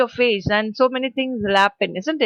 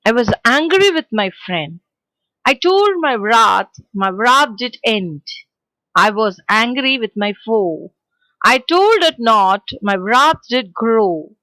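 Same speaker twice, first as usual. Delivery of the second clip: poem recitation; 3 dB louder than usual. Shown as a demonstration. Teacher reciting the poem to children. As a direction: recite each line with weight.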